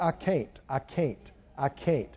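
hopeless despair. Retold or imitated. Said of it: "they keep talking about".

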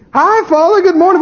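sweet greeting. Retold or imitated. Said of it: "you show up and go".

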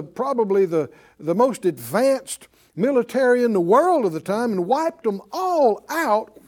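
high, loud, rousing preacher's build; preaching at full force. Acted. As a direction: preach it like the crowd must see the sea part. Preaching the Red Sea crossing.

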